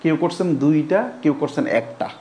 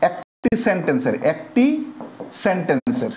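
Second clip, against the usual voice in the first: dictation. Real, not acted. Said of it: "এটা একটু লিখবেন".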